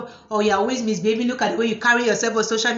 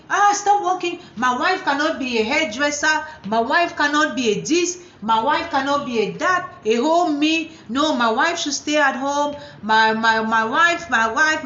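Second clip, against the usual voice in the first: higher, bossy husband voice, lightly acted; mock controlling husband; 3 semitones higher than usual. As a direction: lay down the law as the husband.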